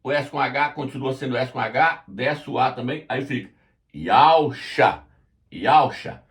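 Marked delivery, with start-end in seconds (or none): 4.0-5.0 Yausha slowly, YAU then SHA; demonstrated pronunciation. Shown as a demonstration. Teacher reading out the transliterated name, demonstrated pronunciation. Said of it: "O W tem som de U". 5.5-6.2 "Yausha" said as YAU-sha; demonstrated pronunciation. Shown as a demonstration. Teacher repeating the transliterated name for viewers, demonstrated pronunciation. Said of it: "O W tem som de U".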